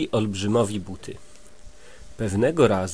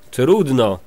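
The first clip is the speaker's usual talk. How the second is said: a touch of a booming giant; thundering giant; 4 dB louder than usual. Acted. Giant answers the little men, mock thundering. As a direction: rumble it out like a big giant. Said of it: "zagrzmiał olbrzym".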